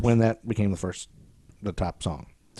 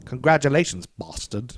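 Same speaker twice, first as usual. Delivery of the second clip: put-on British accent; 2 semitones higher than usual. Host quotes a rival's telegram to co-host, British accent. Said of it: "Is that a good British accent?".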